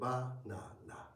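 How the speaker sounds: Banana with identical A vowels, slow; even A sounds in Banana; Japanese pronunciation. Shown as a demonstration. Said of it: "in Japanese they are all the same".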